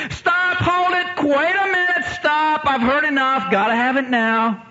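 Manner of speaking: high, slow, eager insistence; can't wait another second; urgent excited demand. Retold or imitated. Christy interrupting the baptism lesson, high and urgent. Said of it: "she says".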